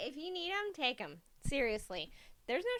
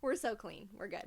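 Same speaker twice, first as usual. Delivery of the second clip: sarcastic; 2 semitones lower, 4 dB quieter than usual. Pretend. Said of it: "We're being sarcastic".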